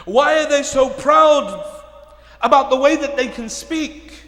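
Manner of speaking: forceful sermon delivery, projected and driving; loud, dramatic retelling from the pulpit; impassioned preaching. Acted. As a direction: preach it out to the whole congregation.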